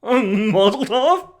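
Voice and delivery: mazel tov drawn out slowly through a laugh; sarcastic laughing mazel tov; slow laughing mockery. Mocking repeat with a laugh.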